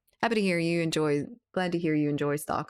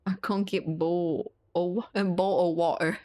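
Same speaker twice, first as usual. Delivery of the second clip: jokey attempt at a British accent; lightly mock a British accent; put-on British accent. Shown as a demonstration. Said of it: "British accent is easy".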